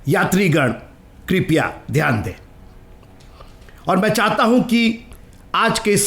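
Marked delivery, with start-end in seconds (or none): 0.1-2.3 train announcer voice. Retold or imitated. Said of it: "आपने ये सूचना सुनी?".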